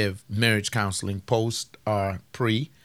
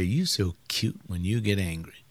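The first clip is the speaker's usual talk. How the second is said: softer, lower sweet talk; tender husband; 5 semitones lower, 5 dB quieter than usual. Retold or imitated. Husband sweet-talking angry wife, soft and low. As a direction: coax her with a gentle compliment.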